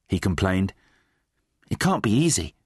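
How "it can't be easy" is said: mildly sympathetic, slightly raised pitch. Acted. Twig to the fallen slaughterer, mild sympathy. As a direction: offer gentle understanding. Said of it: "said Twig sympathetically".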